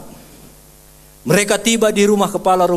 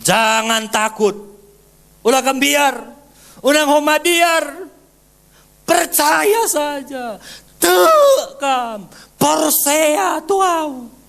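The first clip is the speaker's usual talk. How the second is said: high, slow, gentle reassurance; high slow voice of Jesus calming a grieving father; Jesus reassuring; 10 semitones higher, much slower than usual. Acted. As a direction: soothe a frightened father slowly. Jesus voiced comforting the leader.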